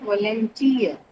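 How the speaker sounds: "Volunteer" with the weight on TEER; stress on last syllable. Shown as a demonstration. Teacher explaining diphthongs to class, "Volunteer" stressed on TEER. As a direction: stress the final TEER of "Volunteer", then fall. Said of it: "attracted to that particular syllable".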